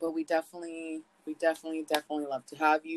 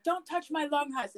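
high whiny protest; 10 semitones higher than usual. Retold or imitated. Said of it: "and I was like".

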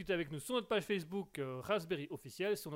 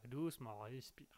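soothing; 6 semitones lower, 9 dB quieter than usual. Acted. Calming an upset colleague.

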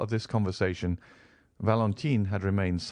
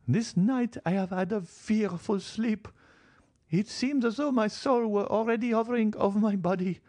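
put-on old lady telling a ghost vision. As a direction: recount the apparition, high and deliberate. Marchioness tells her vision.

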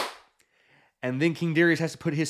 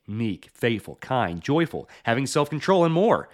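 tag; 3 semitones lower than usual. Pretend. Parody sponsor ad read.

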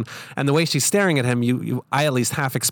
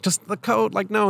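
imitating a singer; 9 semitones higher than usual. Imitating the singer's light reaction.

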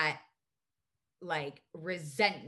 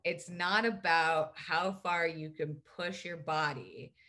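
slow, measured quote; slower than usual. Retold or imitated. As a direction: deliver it slowly, like a lesson to absorb. Quotes the yoga teacher's wise line.

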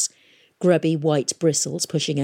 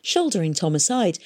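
usual speaking voice

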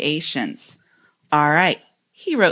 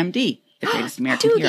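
rushed list on a single breath; all in one breath; much faster than usual. Shown as a demonstration. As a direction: rattle it off without breathing. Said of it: "I'm gonna try to do it in one breath".

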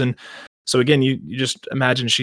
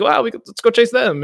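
mock eager elves; 11 semitones higher, 4 dB louder than usual. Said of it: "the elves are like".

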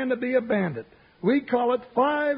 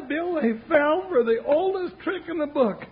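laughing; 4 semitones higher than usual. Acted. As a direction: still chuckling through the words. Sidekick still laughing at villains.

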